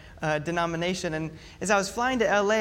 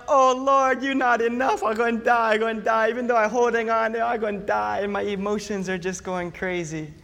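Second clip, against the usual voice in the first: mock panicked prayer; 3 semitones higher than usual. Believer crying out to the Lord in turbulence, mock panic. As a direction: whine to God that you're doomed. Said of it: "You know".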